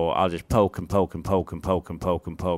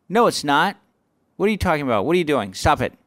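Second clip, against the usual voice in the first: mildly exasperated retort, a bit raised; retold scolding; 5 semitones higher, 4 dB louder, faster than usual. Comic telling off a man in the crowd, retold scolding. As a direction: argue back as if correcting a heckler. Comic re-enacts arguing with heckler.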